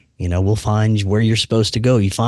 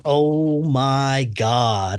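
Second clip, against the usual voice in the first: very slow, stretched oh my God; drawn-out dread; 3 dB quieter, much slower than usual. Retold or imitated. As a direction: let the horror stretch each word. Terrified realisation.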